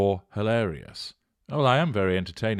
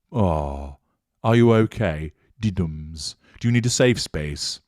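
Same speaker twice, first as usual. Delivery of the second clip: mock sympathy; slower than usual. Mocking a commenter's hurt feelings.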